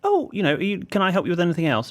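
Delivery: high, sing-song helpful voice; sweet shop assistant. Retold or imitated. Tea counter woman offering help, high and sweet. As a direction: put on a chirpy service voice. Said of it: "she goes".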